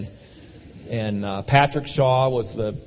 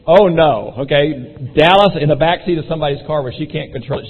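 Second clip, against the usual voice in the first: mock dismay, louder on the opening; dismayed objection; 3 semitones higher, 6 dB louder than usual. Wife objects to riding to Dallas, mock-dismayed. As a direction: imitate a spouse balking, emphatically. Imitates wife's objection to the trip.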